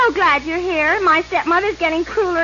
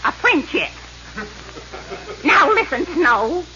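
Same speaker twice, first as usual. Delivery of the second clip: mean stepmother voice. Acted. Cruel stepmother voiced in parody.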